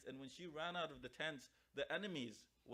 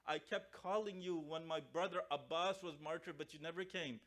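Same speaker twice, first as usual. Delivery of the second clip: retold tearful lament; 3 semitones higher, 4 dB louder than usual. Zainab to the father who never came, tearful lament. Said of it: "When she starts to cry".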